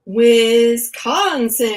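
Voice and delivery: slow, drawn-out Midwest Wisconsin vowels; Wisconsin accent. Shown as a demonstration. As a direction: stretch out Wisconsin like a Wisconsin local. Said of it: "in my best Wisconsin".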